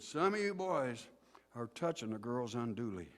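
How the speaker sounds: lightly mocked preacher's reproof; heavy, deliberate preacher. Preacher confronting boys about girls, deliberate and weighty. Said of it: "Breathing more deeply".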